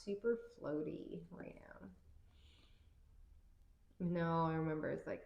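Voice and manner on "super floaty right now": breathy dreamy whisper; floaty whisper. Real, not acted. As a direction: drift off into a whisper. Tarot reader feels floaty.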